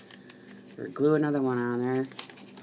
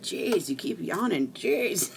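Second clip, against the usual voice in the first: mock exasperated husband, building; imitating husband; 8 semitones higher, 6 dB louder than usual. Wife retelling husband telling her to go to bed, mock exasperated. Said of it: "My husband said".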